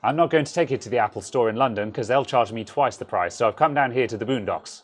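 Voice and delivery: lightly put-on London accent; playful take on a well-off Londoner's accent; silly London accent, lightly hammed; mock London accent. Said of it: "I'm being silly".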